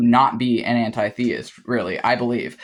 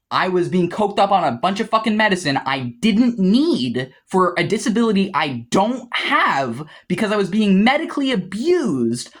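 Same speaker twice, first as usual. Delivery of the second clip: heated rant. Real, not acted. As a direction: pitch climbing as anger builds. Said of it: "I'm actually getting a little bit too heated".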